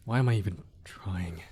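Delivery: a frustrated under-the-breath whisper; mutter-whisper of giving up; whispered aside. Acted. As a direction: whisper it to yourself, defeated. Gives up mid-confession, to himself.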